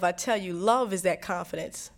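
usual speaking voice

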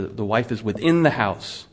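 "within" leaned on, second syllable brought out; stress on within. Shown as a demonstration. Preacher explaining the verse's wording to the congregation, stressing "within". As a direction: put the emphasis on "within". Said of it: "there is an emphasis on this word".

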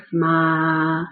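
ma held level and drawn out; first tone. Shown as a demonstration. Teacher giving an example of the first tone, flat tone. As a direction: say ma on a long, flat, even pitch. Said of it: "So first tone".

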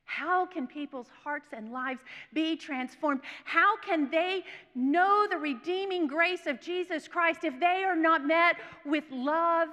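rising, emphatic rhetorical questions; impassioned preaching. Real, not acted. Preacher asks congregation how lives can be transformed, impassioned appeal.

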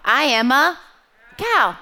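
cow's proclamation. Acted. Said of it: "said the cow".

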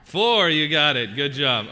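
loud, high cheer for a right answer; excited praise. Real, not acted. Child answers quiz correctly.

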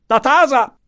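high, sharp interjection; silencing the servant. A narrator's reading. Puttini silences the protesting servant, crossly. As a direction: break off to hush her in a high voice.

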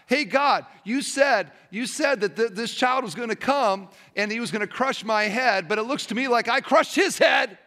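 shrieked high triumphant yell that settles into loud gloating; Satan's gleeful gloating. Retold or imitated. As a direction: crow over a victory you think is won. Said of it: "The glee and the joy and the gladness".

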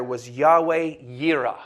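Yahweh Yireh with a rolled r on Yireh. Shown as a demonstration. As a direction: roll the r in Yireh. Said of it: "Isn't that fun to say?".

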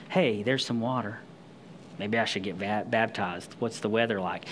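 casual, throwaway musing; offhand mock quote. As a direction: toss it off as if it doesn't matter. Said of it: "He wasn't going".

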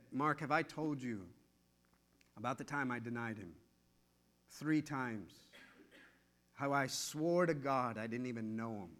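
soft, low, tearful confession; a hint of tears in an old man's memory; tearful old Peter. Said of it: "maybe tears filled in his eyes".

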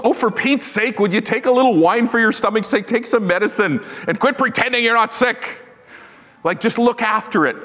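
lightly hammed-up fed-up mentor; exasperated Paul. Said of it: "Paul goes".

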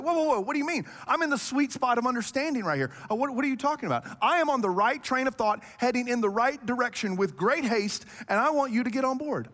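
high-pitched mock disbelief; shook, incredulous protest. Husband insisting to his wife that he is right, high and flabbergasted. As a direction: protest as if wildly misunderstood. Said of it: "I was totally shook".

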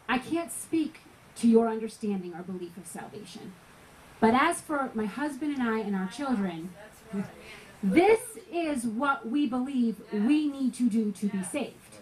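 steady and polite, never rising; calm. Retold or imitated. To the administrator, keeping it calm and firm. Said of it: "So I very calmly said to her".

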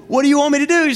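high, exasperated husband's retort; mock exasperation. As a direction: throw it back like a cornered husband. Husband protests in acted quarrel.

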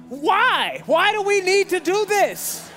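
hammed-up high wail of protest; alarmed protest. Retold protest at scoreboard idea.

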